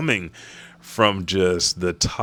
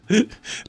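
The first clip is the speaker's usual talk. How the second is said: high, short mock sob; brief crying noise, put on; imitated sob. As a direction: gasp out a pretend sob. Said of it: "just crying".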